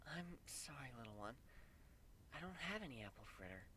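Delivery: soft, tender apology; gentle to a foal. A narrator's reading. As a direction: speak softly to a baby.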